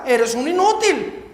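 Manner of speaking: "Eres un inútil" preached loud, slow and heavy; loud insult. Retold or imitated. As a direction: fling "inútil" down hard and slowly. Quoting the insult again, preaching.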